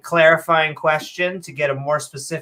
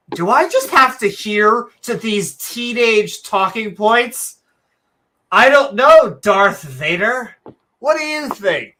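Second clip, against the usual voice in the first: mock Dawkins-Vader; 3 semitones higher, 3 dB louder than usual. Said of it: "listen to a voice continuously go".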